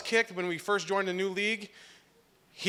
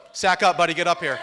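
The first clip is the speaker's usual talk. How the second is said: calling out; 7 dB louder than usual. Real, not acted. Calling brother to microphone.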